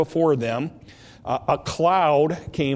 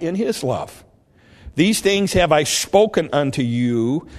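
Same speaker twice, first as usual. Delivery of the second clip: scripture reading; 3 dB louder than usual. A narrator's reading. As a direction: read the verse out with measured weight.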